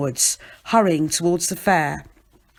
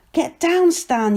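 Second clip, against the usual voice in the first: high, loud order falling off; warning yell; 10 semitones higher, 4 dB louder, slower than usual. A narrator's reading. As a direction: yell up to someone in danger. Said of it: "yells Ernie".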